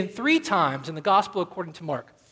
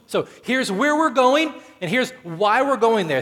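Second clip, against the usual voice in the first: voicing Jesus; 4 semitones higher, 5 dB louder than usual. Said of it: "talking about myself".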